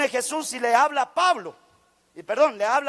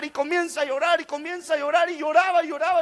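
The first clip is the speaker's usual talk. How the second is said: higher-pitched, piled-up repetition; animated storyteller's build; insistent retelling; 5 semitones higher, faster than usual. Retold or imitated. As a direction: keep piling on the repeats, pitch raised. Retells young man's endless weeping.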